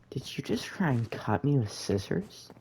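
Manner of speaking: mock-incredulous teacher, pitch swooping up; imitated disbelieving question; retold shocked accusation. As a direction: act out an aghast accusation, voice jumping high.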